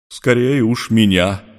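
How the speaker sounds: mild, slow sad reply. Acted. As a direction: Iskin answering Ivan, a touch sad and slow. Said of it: "печально сказал Искин".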